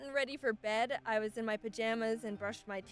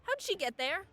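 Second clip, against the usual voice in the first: alarmed lady; 5 semitones higher than usual. Pretend. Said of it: "point of view of this lady".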